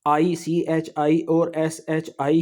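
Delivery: slow, careful listing of the letters; slow spelling out. Shown as a demonstration. Teacher slowly spelling chi and shi for students. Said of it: "सिर्फ Z H".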